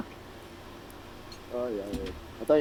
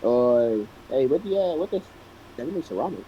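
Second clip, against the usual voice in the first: put-on cheeky British accent, pitched up; 4 semitones lower than usual. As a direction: play a bold British rogue haggling. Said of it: "He's doing an accent".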